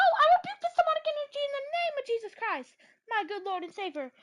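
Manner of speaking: high, loud mock exorcism; mock preacher rebuke.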